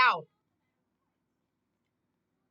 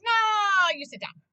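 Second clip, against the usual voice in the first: stern mom; 6 semitones higher, 6 dB louder, slower than usual. Retold or imitated. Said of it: "I'd be like".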